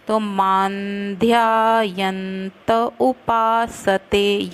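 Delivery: मान्ध्यायन्त with a full त before उपासते, slow; full त in यन्त. Shown as a demonstration. Teacher showing students the full त in मान्ध्यायन्त. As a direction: say मान्ध्यायन्त as maandhyaayanta. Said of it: "यंत पूरा बोलना त".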